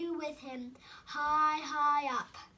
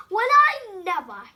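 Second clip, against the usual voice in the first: chirped; 5 semitones higher, 13 dB louder than usual. A narrator's reading. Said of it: "he chirped".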